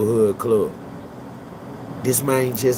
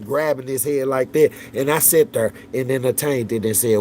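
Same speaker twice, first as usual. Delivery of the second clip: usual speaking voice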